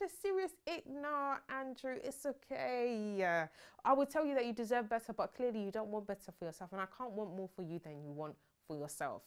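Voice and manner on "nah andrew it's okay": slow, drawn-out cold brush-off; dismissive brush-off. Retold or imitated. Tasha brushing off Andrew's hug, slow and dismissive. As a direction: coolly wave him off, drawn out. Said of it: "she had the ick".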